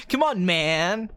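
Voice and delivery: slow, drawn-out tough-talking actor; Harvey Keitel. Acted. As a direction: stretch it out in a slow drawl. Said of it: "that's how the guy talked".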